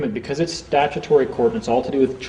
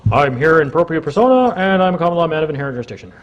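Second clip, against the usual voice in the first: rattled off, a touch higher and faster, mock-confident; parroting an online script; 4 semitones higher than usual. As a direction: recite it like a memorised internet phrase you don't understand. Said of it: "if you just read something online and came in".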